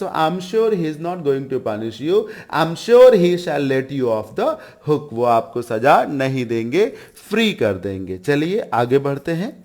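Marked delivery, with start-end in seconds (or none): 0.0-5.1 slow, word by word, for the class; slow dictation. Shown as a demonstration. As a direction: spell it out slowly so students can follow. Teacher reads English sentence for class. (धीरे-धीरे, शब्द-शब्द करके)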